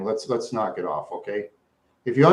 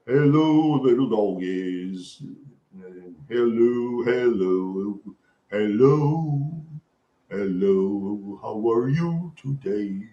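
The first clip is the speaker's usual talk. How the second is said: put-on cowboy accent; 2 semitones lower, much slower than usual. Cowboy accent, greeting the chat on request. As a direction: greet the cattle like a slow-talking cowboy. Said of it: "Cowboy accent".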